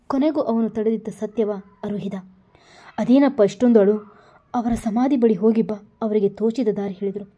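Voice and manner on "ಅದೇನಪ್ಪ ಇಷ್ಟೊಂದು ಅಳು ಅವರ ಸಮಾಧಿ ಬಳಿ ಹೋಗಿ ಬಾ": put-on louder, fussing old grandmother voice; a lightly voiced granny coaxing her grandson; grandmother consoling. Grandmother urges crying Rajat to visit the grave.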